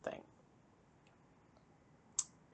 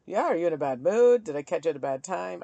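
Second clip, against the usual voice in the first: mock concerned question; 5 dB louder, faster than usual.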